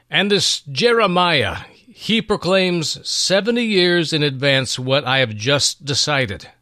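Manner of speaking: high, loud royal exclamation, slowing at the end; a king shaken by his own foretold decision; unsettled king.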